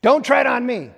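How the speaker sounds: loud defiant protest cry; shouted slogan. Acted. Preacher voicing protesters, shouting the slogan. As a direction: yell it like a protester's chant. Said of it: "we are all screaming the same thing".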